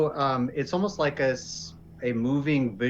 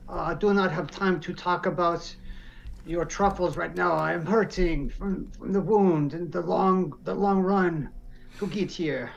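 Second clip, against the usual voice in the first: Rolf; 6 semitones higher than usual. Acted. Player as wounded Rolf puts off the leader, German accent. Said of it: "had, like, a German accent".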